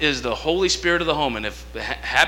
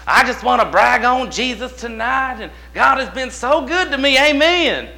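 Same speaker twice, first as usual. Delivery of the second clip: much higher, louder joyful testimony; testifying church lady; 8 semitones higher, 5 dB louder than usual. Retold or imitated. Church lady testifying to the congregation, high and excited. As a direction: lift it up like a church lady praising.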